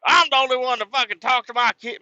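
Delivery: high, loud shrieking mom voice; furious mom on the phone. Retold or imitated. Mom on the phone defending her kids, high furious shriek. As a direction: screech it like an outraged mother. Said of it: "I'd be like".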